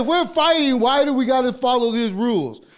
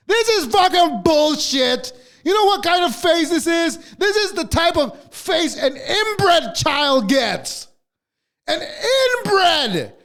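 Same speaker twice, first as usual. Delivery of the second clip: higher, slow indignant rant; 6 semitones higher than usual. Real, not acted. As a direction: rant with disgust. Ranting about the profile.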